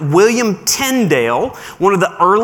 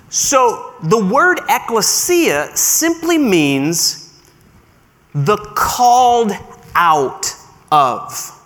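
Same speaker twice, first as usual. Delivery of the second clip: called stretched slow and weighty; slow emphasis; slower than usual. Shown as a demonstration. Defining ecclesia for the congregation, slow and emphatic.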